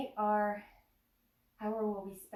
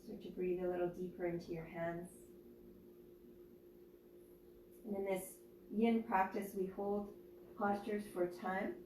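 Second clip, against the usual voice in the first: guided meditation. Acted. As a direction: ease them into stillness, unhurried. Leads a yoga nidra meditation.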